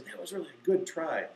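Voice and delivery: gentle acted encouragement, softening as it goes; affirming, encouraging. Teacher to a kid who missed it, gently encouraging. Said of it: "Then just affirm, encourage, say".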